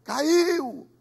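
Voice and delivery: high yelled gossip; mock gossip shout. A churchgoer yells down the news of the fall, loud. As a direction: call it out like a nosy churchgoer. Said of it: "tem gente que faz questão de gritar".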